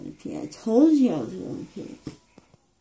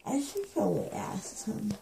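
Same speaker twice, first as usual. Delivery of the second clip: groggy soft whisper; 11 dB quieter than usual. Real, not acted. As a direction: whisper it to yourself. Whispering after other's whisper.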